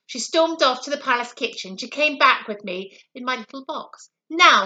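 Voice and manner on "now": a loud, sharp Now; firm queen taking charge; commanding queen. A narrator's reading. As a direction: call for attention like a queen. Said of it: "said the Queen".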